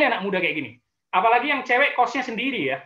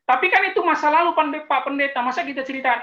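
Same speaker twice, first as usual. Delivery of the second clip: higher, louder, quick whiny objection; protesting young woman; 5 semitones higher, 4 dB louder than usual. Acted. A young woman protests to the pastor, whiny and fast. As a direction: play a girl pleading to keep her past hidden.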